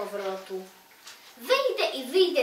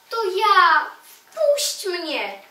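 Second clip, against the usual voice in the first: calling out; 6 semitones higher, 6 dB louder, much slower than usual. Acted. Knocking, begging the stone to open.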